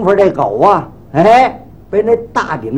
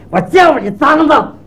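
higher, shouted threat at the dog; angry shout; 5 semitones higher than usual. Retold or imitated. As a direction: yell it as you swing the knife. Barber chops at dog. (气急大喊)

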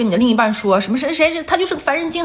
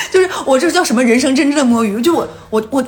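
laughing. Real, not acted. Laughs after host's pity.

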